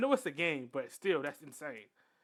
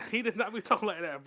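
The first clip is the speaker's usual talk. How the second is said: said through a laugh; 3 semitones higher, 5 dB louder than usual. Real, not acted. Friend reacting to a game kid's speech, laughing. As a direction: laugh while insisting on the point.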